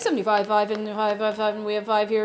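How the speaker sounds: rapid mock auction patter; auctioneer. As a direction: call out bids like an auctioneer. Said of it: "I sound like an auctioneer".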